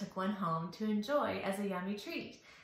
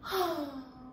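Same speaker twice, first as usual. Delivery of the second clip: demo sigh; 3 semitones higher, 3 dB quieter than usual. Shown as a demonstration. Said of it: "And a sigh".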